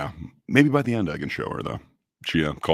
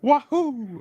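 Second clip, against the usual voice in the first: prairie dog; 3 dB louder than usual. Shown as a demonstration. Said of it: "that's as close as I can get to high pitched".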